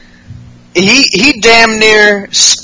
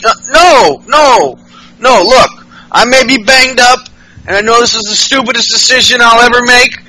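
eager pleading; 5 semitones higher than usual. Retold or imitated. Ellsworth voiced pleading eagerly.

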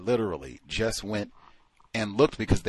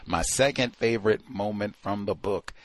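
normal talking voice

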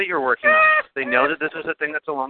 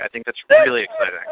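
sarcastic; 6 dB louder than usual. Acted. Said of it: "You're being totally sarcastic and shitty".

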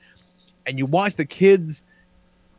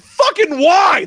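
much higher, louder, slow outburst; exasperated shout; 14 semitones higher, 5 dB louder, slower than usual. Retold or imitated. Blurting out at the four H awards, much higher and louder. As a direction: yell it in disbelief. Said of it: "I said".

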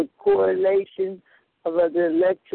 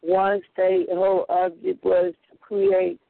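distant, off-mic voice; talking away from the phone; phone held away. Real, not acted. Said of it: "try to talk into the phone".

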